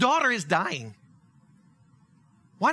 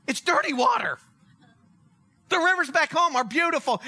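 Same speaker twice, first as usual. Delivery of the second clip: indignant rant; 2 semitones higher than usual. Acted. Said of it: "he starts arguing".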